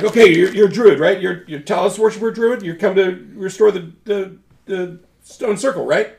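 high, loud weasel voice questioning. Acted. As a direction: quiz the druid in a high creature voice. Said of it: "he's like".

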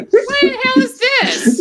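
mock-Southern, drawn-out outrage; hammy Southern disbelief. Fake outrage, Southern role.

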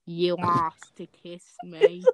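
slow, flat deadpan on You asked to kiss me, asked drawn out. Shown as a demonstration. Reader redoes line as deadpan for friend. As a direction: say it dry, no emotion at all. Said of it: "Oh, sorry, deadpanned".

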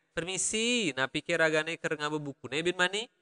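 Balinese lilt with a rising ending; Balinese accent. Shown as a demonstration. Teacher giving learners a question to copy, Balinese accent. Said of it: "copy my accent".

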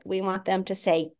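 ordinary talk

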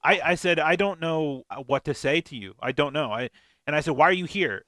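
hammed-up disbelief at her; mock indignant retelling. Retold confrontation in theater.

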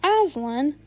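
startled repeat of the name; crying out. A narrator's reading. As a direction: cry it out in disbelief. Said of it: "cried the queen".

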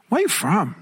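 Filipino-accented lady, mimicked. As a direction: imitate a Filipino lady's accented question. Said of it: "She got the accent still".

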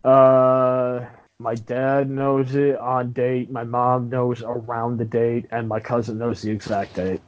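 talking with retainers in. Real, not acted. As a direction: lisp round a retainer. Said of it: "You sound like you've been sucking on Novocaine".

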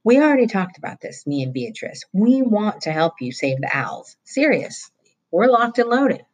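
pleading to be let in; eager boy. Acted. Roy begging Mullet Fingers to accept help, eagerly.

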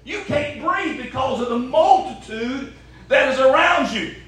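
laughing, fast mock disbelief; incredulous disciples. Preacher voicing the crowded disciples, laughing and quick. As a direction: disciples scoffing at Jesus, half-laughing.

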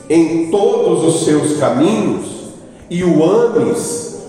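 slow, deliberate reading of the verse; scripture reading. Acted. Preacher reading the law of Israel to the congregation, slow and solemn. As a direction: read the verse slowly and solemnly.

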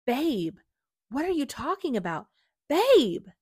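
high, loud, bewildered protest; calling out. Acted. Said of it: "he called out".

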